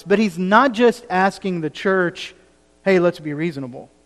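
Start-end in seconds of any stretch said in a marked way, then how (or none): 2.8-3.9 chummy. Retold or imitated. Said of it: "matter-of-fact, chummy type way".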